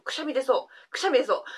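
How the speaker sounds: holding back a sneeze; about to sneeze. Real, not acted. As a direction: talk with a sneeze coming.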